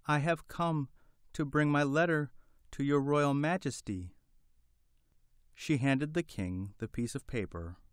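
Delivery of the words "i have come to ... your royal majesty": higher, timid hen voice; nervous little bird speaking up; frightened little voice. Acted. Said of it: "frightened little voice".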